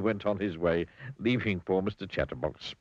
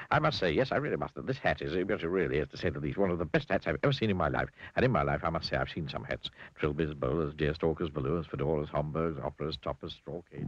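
chatterbox character; 4 semitones lower than usual. Acted. Mr Chatterbox to Mr Bowler about the new hat, giddy gushing. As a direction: gush on and on, delighted with the hat.

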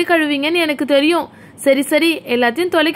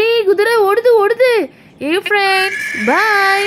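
higher pretend-child calling out; playful, raised-pitch excitement; excited child; 4 semitones higher, slower than usual. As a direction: call to friends while riding off. Child rides off calling friends.

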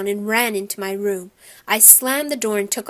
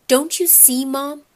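high, loud, exasperated appeal; upset pleading; 5 semitones higher, 4 dB louder than usual. A narrator's reading. Boy appeals to mother about brother, upset and frustrated.

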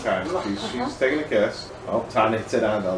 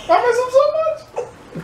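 high, slow fake wistful; hammed-up longing; mock sentimental; 5 dB louder, slower than usual. Real, not acted.

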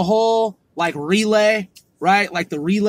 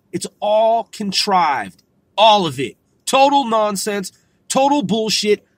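loud ranting; 3 semitones higher, 5 dB louder than usual. Acted. Escalating rant against media.

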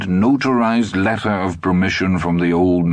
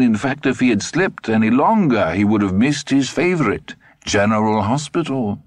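put-on old German man; 4 semitones higher than usual. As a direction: savor every word, old man. Dussander tells his tale.

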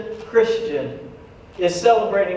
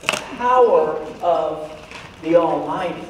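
echoing proclamation; 2 semitones lower than usual. Shown as a demonstration. Preacher showing off a practiced word to the church, ringing. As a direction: send it booming round the room. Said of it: "I practiced that all week to make sure it echoed".

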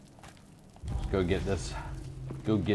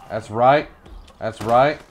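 loud gloating, less high; hyped gloat; 3 semitones higher, 6 dB louder than usual. Real, not acted. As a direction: gloat it with energy. Repeats victory line calmer.

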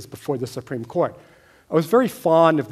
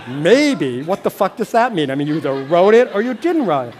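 louder, exasperated retold yelling at dad, speeding up at the end; angry outburst; 3 semitones higher, 6 dB louder than usual. Son confronting dad about the manuscript, angry and loud. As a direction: fire it back, half-laughing in disbelief. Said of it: "I got more animated. I was really angry".

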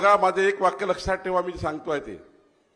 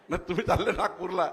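laughing; 5 dB quieter than usual. Real, not acted. Jokes about wrong date.

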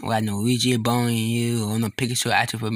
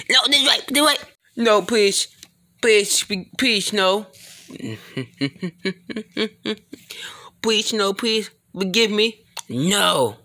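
higher, pleading voice; begging for mercy; 9 semitones higher, slower than usual. Acted. Begging the attacker for mercy in a high pleading voice. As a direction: plead desperately not to be hurt.

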